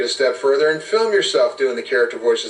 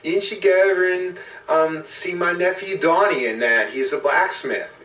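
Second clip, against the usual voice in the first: higher-pitched quirky character voice; sandwich shop character; 7 semitones higher than usual. Acted. Game master voices the sandwich shop worker, in character.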